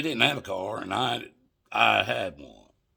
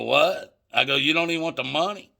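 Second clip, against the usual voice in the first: higher, louder incredulous question; retold disbelief; 6 semitones higher, 7 dB louder than usual. Buyer questions dealer who waves away the money, incredulous. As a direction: re-enact being thrown by a free gift. Disbelief at being refused payment.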